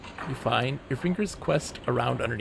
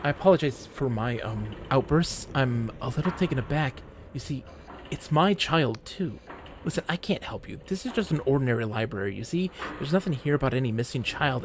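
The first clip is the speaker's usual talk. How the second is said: fussy librarian, pitched up; old librarian voice; 2 semitones higher than usual. Acted.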